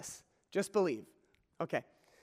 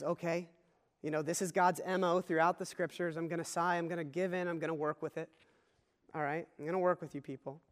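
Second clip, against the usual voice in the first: softer, weary giving-in voice; a touch of tired patience, much softer; resigned sigh; 3 semitones lower, 6 dB quieter than usual. Acted. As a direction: sound like someone reluctantly giving in. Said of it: "Jesus kind of, you could just imagine, breathes a sigh".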